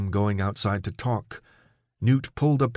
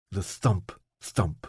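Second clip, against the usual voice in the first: usual speaking voice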